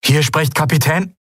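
high, strained captain on a bad line; distress call. A narrator's reading. Ship captain calling whoever may hear, urgent distress call. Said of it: "Das Rauschen war so stark".

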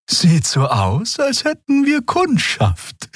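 very high, slow alien voice; slow high curious remark; Xea noticing. A narrator's reading. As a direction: remark it in the lifted Draxül voice. Xea sees lights on ship.

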